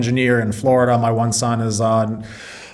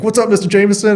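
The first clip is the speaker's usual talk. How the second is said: high, louder mock hello; excited greeting; 10 semitones higher, 5 dB louder, faster than usual. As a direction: throw out a cheerful, surprised hi. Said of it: "K J, I was like".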